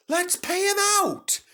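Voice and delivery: high shrill plotting revenge; spiteful coaches. Acted. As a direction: squeal it with spite. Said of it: "screamed the coaches".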